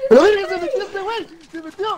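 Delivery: loud high alarmed yell; shouting. Real, not acted. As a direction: yell in panic. Enemy gets in, shouting.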